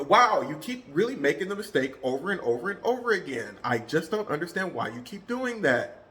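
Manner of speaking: fed-up disbelief at a repeated mistake; exasperated. Shown as a demonstration. Explaining tone with an annoyed coworker example. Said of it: "example of tonality versus pitch".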